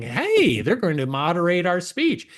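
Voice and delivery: mildly mock a happy "Hey" crowd; lightly put-on happy enthusiasm; mock happy millennials. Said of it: "all these very happy".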